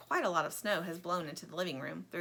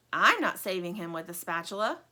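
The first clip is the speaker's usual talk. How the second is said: bossy; 4 dB louder than usual. Acted. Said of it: "never heard Plastic talk like this".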